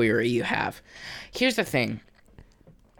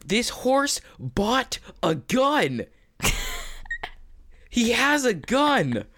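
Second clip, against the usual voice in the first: horror trailer voice; 9 semitones higher, much slower than usual. Acted. Mock trailer, high far voice.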